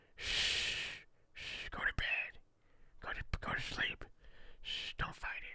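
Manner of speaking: slow, very quiet, hushed shushing whisper. Telling someone to go to sleep and not fight it: whispering. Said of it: "Why are you whispering?".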